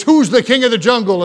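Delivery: half-hearted storyteller's roar; mock lion roar. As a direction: lightly imitate a roaring lion's challenge. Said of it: "roared into his face".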